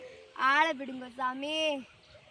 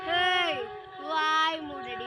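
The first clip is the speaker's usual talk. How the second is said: angry scolding; 3 dB louder, much slower than usual. Acted. Mother silences begging child.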